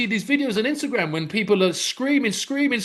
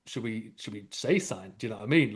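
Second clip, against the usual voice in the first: much lower, much softer mock murmur; retold hushed aside; 10 semitones lower, 9 dB quieter, faster than usual. Onlookers on the train wondering whether to speak, hushed. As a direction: hush it like scared onlookers.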